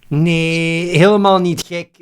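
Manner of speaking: loud, high protest. Real, not acted. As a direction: push back loudly. Arguing back with AI voice.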